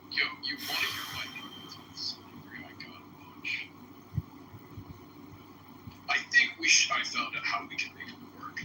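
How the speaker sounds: a hint of a whispered troll pundit; smug mock pundit voice, half-whispered; troll voice impression. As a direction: murmur it like an online troll. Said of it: "That was great. In fact, I think you should talk that way".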